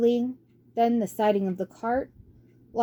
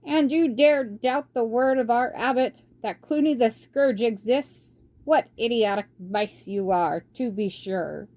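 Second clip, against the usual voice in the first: stern rebuke; 3 semitones higher than usual. Acted. Old mouse scolding doubting abbey mice, mildly stern. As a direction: chide them for their foolish doubt.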